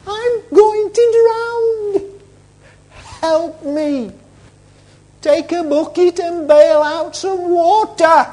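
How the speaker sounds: high, drawn-out cry for help; hammed-up drowning panic; acted fear. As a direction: plead in a slow, high wail. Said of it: "It's called fear".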